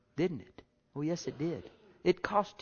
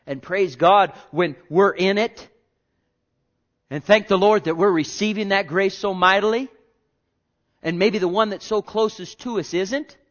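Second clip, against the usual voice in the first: louder, urgent preacher's delivery; fervent preaching; 4 semitones higher, 8 dB louder than usual. Real, not acted. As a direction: preach it out to the congregation. Preaches with rising force.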